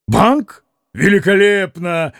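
keen, animated approval; eager pickup. A narrator's reading. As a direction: seize on the idea at once. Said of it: "подхватил Митя".

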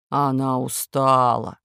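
wolf voice. Acted. Wolf repeats.

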